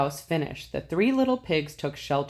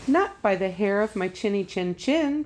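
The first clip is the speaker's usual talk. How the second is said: crying out; 4 semitones higher than usual. Acted. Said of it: "cried the little pigs".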